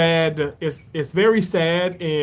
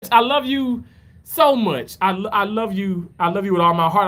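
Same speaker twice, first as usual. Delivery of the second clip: tender; 2 semitones higher than usual. Real, not acted. Uncle softening after excited shout.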